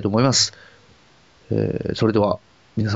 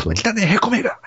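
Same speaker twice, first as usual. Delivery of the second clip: insulting voice; 12 semitones higher than usual. Pretend. Mock insult in character.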